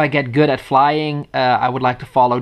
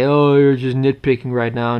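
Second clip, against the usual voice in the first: imitating a scoffing critic; dismissive quote. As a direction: toss it off like a know-it-all. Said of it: "people can say".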